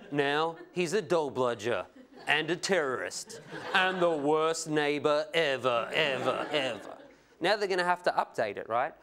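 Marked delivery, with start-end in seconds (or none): 0.1-7.0 lightly mocked scare-story narration; Current Affair reporter. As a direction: spell out the accusations like a tabloid reporter. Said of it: "does those scare stories".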